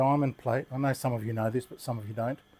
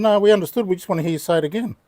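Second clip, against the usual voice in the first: louder, higher, quick mock-eager voice; eager quoted reply; 6 semitones higher, 7 dB louder, faster than usual. Americans wanting to hear his Australian accent, imitated eagerly. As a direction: imitate delighted fans, pitched up and rushed.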